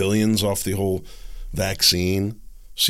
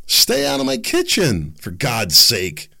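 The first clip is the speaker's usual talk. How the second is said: exasperated outburst; 4 dB louder, slower than usual. Real, not acted. Indignant outburst.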